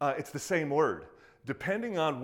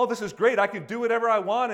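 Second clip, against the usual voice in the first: careless believer; 8 semitones higher, 7 dB louder, faster than usual. Retold or imitated. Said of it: "if you think".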